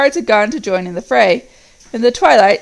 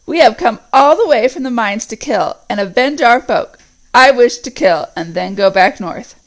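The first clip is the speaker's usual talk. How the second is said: loud northern orc set on killing; vengeful orc; 2 semitones higher, 5 dB louder than usual. Acted. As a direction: demand revenge for their folk. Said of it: "said one of the earlier voices".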